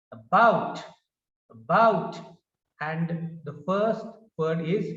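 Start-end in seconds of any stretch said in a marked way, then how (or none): 0.1-2.2 "about" with BOUT punched loud; weak a, strong bout in "about"; stress on second syllable. Shown as a demonstration. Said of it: "we pronounce this word as".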